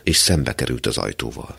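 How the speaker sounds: plain reading voice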